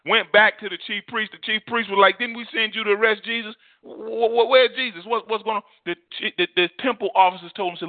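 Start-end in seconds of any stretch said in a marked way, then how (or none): 2.2-5.6 stammered, higher-pitched demand; mock indignant questioning. Preacher voicing priests quizzing returned officers, mildly indignant. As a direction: demand answers, tripping over the question words.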